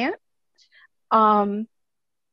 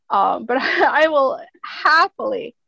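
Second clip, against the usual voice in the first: laughing; 3 dB louder than usual. Real, not acted. Laughs through her offer.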